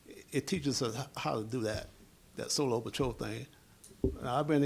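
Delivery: raspy voice with a cold; hoarse voice from a cold. Real, not acted. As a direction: talk through a sore, hoarse throat. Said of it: "Excuse my voice, I got a little cold".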